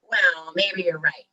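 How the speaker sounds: loud, grudging troll; storybook troll grumble; troll's growl. A narrator's reading. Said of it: "growled the troll".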